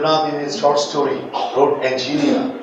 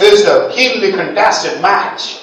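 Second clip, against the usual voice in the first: slow model sentence; 5 semitones higher, 3 dB louder than usual. Shown as a demonstration. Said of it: "model sentence".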